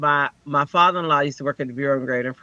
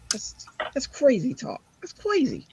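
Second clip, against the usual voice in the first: high, small comic voice; playful squeak; 10 semitones higher, 4 dB quieter than usual. Real, not acted. Dismissing sleeping on the road, playful high aside. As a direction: pitch it way up, lightly.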